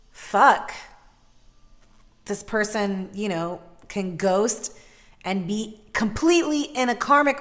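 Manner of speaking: rising into loud, passionate talk. Real, not acted. Reader explaining karmic ghosting to viewers, passionately loud. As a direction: get carried away explaining it. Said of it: "I get very loud".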